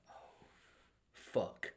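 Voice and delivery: soft, breathy, under the breath; inner curse. Retold or imitated. New manager sees the fight in the lobby, hushed curse. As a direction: mutter it to yourself in dismay. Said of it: "in my head, I'm like".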